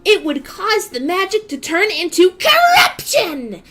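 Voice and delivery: lightly voiced anime girl reading; a hint of a bright character voice; Akira voice. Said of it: "start reading this in my Akira voice".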